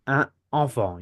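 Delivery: Un enfant with the N linked, un-nenfant; French liaison demo. Shown as a demonstration. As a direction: link the N of Un into enfant. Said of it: "You cannot say un enfant".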